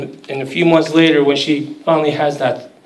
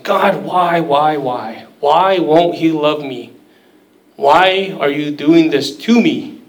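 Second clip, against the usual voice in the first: slow, pleading lament to God, understated; a hint of desperate pleading, slowly; anguished crying out; slower than usual. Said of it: "crying out, saying".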